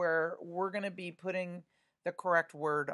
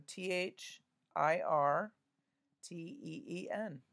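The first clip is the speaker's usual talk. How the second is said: spelling aloud. Shown as a demonstration. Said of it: "I'm spelling it out loud".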